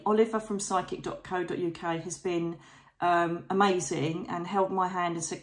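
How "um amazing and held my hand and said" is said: ordinary delivery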